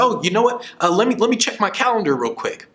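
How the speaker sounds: playing the in-demand speaker on the phone, breezy; busy professional act.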